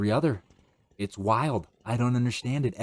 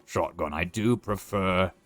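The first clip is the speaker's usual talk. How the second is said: 2 a slightly lower goofy commentator voice; 3 keep a silly put-on voice going while you play; 4 understated goofy character voice; lightly put-on goofy voice; 3 semitones lower than usual. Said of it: "commentate this entire next round with a voice".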